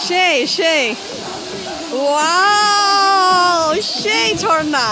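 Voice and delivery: excited. Real, not acted. First sight of the waterfall.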